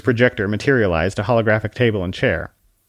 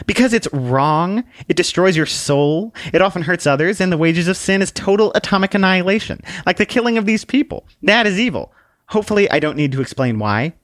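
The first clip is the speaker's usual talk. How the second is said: high, polite little lady; curtsy it out sweetly, voice up high; prim little book voice; 10 semitones higher, 3 dB louder than usual. Acted. Book introduces herself to the man with a high dainty bow.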